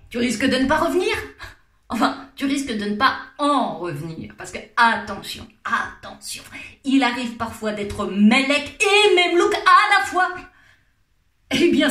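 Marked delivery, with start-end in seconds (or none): none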